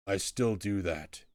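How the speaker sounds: lightly voiced troll; blunt, simple troll answer; plain-spoken caged troll. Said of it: "Troll, I mean".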